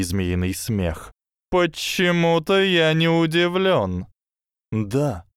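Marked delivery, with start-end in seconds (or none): 1.5-4.1 high, slow hissing snake voice; slow hypnotic serpent hiss. Acted. Snake's sardonic reply. 4.7-5.2 impassive hiss. Acted. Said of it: "бесстрастно прошипел Гарри".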